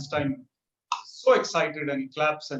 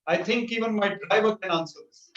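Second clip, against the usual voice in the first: confident comeback; 5 semitones higher than usual. Retold or imitated. Driver posing as Einstein answers the professor, confidently. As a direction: toss it off as if it's beneath you.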